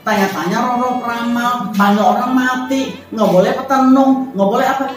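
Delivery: half-acted plea, voice rising to a tearful break; imitated tearful farewell to her spirits; pleading to spirits. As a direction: mildly reenact telling the spirits no. Tells spirits she is leaving.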